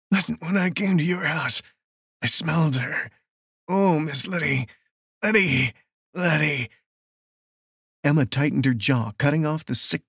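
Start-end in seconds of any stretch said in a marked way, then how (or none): 0.1-6.7 creepy, raised sing-song killer voice. Acted. Killer taunting about the woman he smelled, sing-song. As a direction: lilt the name like a sick refrain. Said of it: "Fuller's voice rose an octave, took on a sing-song rhythm".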